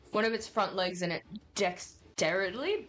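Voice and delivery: talking with a mouth full of food. Real, not acted. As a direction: speak through a half-full mouth. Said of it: "Sorry, I put half my mouth full".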